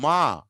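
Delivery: మా with a long hummed m first; stretched, emphatic "mmmaa" for మా; nasal demonstration. Shown as a demonstration. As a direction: hold the m, then open into a long మా. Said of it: "మా అన్నప్పుడు".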